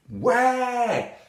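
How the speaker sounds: high, loud cry; shouted question. A narrator's reading. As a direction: call it out as Little Red Riding Hood. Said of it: "shouts Little Red Riding Hood".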